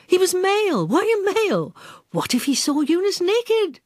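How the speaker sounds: a touch of a scandalised busybody; scandalised neighbour. Acted. Monica frets that the robot is male, lightly scandalised. Monica's shocked thoughts voiced.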